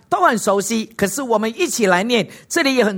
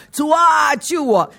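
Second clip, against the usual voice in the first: cry for help; 4 semitones higher, slower than usual. Acted. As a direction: call out like a sinking man. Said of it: "并喊着说呢".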